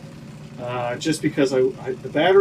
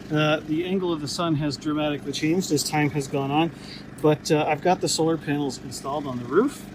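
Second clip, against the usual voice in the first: usual speaking voice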